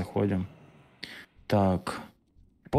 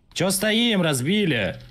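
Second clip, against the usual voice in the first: loud, high call to the team; loud urging; 11 semitones higher, 5 dB louder, slower than usual. Real, not acted. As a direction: shout it out to hurry them up. Raid leader urging team on.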